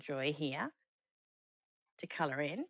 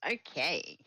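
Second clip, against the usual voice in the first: yawning; 5 dB louder than usual. Real, not acted. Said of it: "Big yawn".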